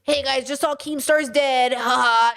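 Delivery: put-on old people voice. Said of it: "That's my old people voice".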